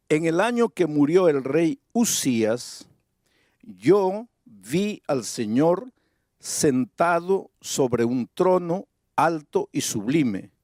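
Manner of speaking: slow, deliberate Bible reading; scripture reading. Acted. Preacher reads Isaiah's vision to the congregation, slow solemn reading. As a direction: draw the verse out, pausing between phrases.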